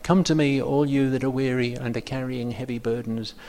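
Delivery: measured, rhythmic Bible reading; scripture reading. Shown as a demonstration. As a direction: read it with stress on my and me. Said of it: "I'm just gonna read this, uh, like that".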